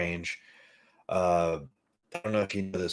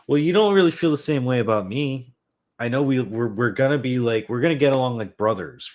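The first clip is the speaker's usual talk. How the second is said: talking to the dog; 5 semitones higher, 8 dB louder than usual. Real, not acted.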